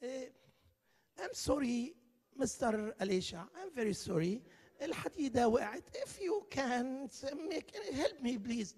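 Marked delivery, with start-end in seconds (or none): 1.2-8.7 very slow, mock-polite pleading; mock a too-calm apology; overpolite apology. Preacher mocking how the man did not cry, slow polite plea. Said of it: "ما قالش ... لا، ما قالش كده".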